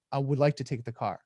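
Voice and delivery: measured, simple statement; calm, clear request. Shown as a demonstration. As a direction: keep it short, clear and unhurried. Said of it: "I'm going nice and slow and taking pace".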